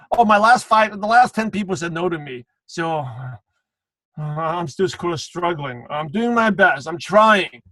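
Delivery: mock discouraged, sagging in the middle; struggling recruiter. Stuck recruiter explaining the last ten rejections, mock discouraged. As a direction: act out a stuck recruiter making excuses. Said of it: "you talk like that, people can hear it in your voice".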